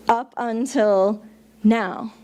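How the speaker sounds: drawn-out UP UNTIL NOW, each word slow; slow, deliberate. Shown as a demonstration. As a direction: let "Up until now" land slowly. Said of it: "So what that phrase means".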